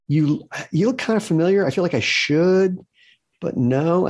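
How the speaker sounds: high-pitched, hesitant imitation of mom; lightly acted uncertainty, pitched well up; puzzled mother. Confused mother answering her daughters, puzzled and high.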